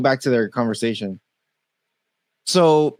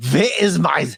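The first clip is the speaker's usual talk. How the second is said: hammed-up, higher, drawn-out demand; mock German interrupter; 6 semitones higher, slower than usual. Mocking the guy who burst in, hammed-up demanding voice. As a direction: imitate a silly foreigner demanding his game, stretching the last words. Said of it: "Snootenvigel over here come out and say".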